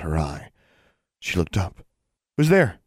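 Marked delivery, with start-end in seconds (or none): 2.4-2.8 higher-pitched call into the dark; sharp questioning call down a corridor. A narrator's reading. Girl hearing a noise in a dark corridor, calling out. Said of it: "she called out".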